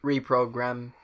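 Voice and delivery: mock robot short-circuiting; robotic readout, playfully put on; malfunctioning robot. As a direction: speak like a glitching computer. Playing a short-circuited robot brain.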